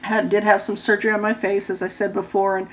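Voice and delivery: hoarse, talking with a wired jaw; hoarse and stiff-jawed, with a dry mouth. Real, not acted. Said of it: "my voice is so bad and I'm going hoarse".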